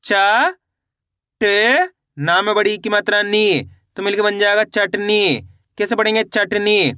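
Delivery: stretched letters blended into the whole word; even sing-song drill cadence; letter-by-letter pronunciation. Shown as a demonstration. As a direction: demonstrate the spelling slowly in separate pieces. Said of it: "एक बार फिर से देखिए".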